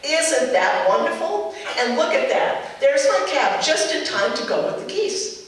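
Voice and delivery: lightly put-on sing-song mom humoring her child; a hint of the sweet indulgent mother, slowed on the question; mother humoring her daughter before the cab, mildly patronizing; patronizing mommy voice. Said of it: "my best patronizing mommy voice".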